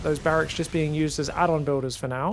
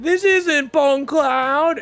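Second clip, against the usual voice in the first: indignant chat; 9 semitones higher, 7 dB louder, much slower than usual. Retold or imitated. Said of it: "there's gonna be something like".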